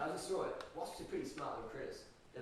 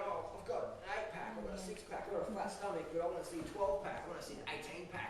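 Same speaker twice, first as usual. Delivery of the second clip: higher, louder hammed-up gym fanatic voice, breaking into laughter; mock gym obsessive; 5 semitones higher, 8 dB louder than usual. Mocking gym people who starve themselves, higher and louder hammed-up voice. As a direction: lampoon a vein-counting bodybuilder.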